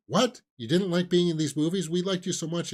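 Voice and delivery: high, incredulous imitation of upset fans; mock dismayed fans. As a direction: protest like a hurt fan, playfully exaggerated. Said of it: "fans of the Kissing Booth movies are like".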